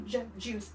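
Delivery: "Ju-" cut short, then "juice" said whole; isolating first sound. Shown as a demonstration. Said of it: "How about juice? Does that start with a J?".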